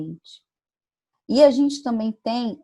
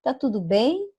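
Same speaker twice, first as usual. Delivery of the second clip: casual greeting; 4 semitones higher than usual. Retold or imitated. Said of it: "Eu falo assim com a minha mãe".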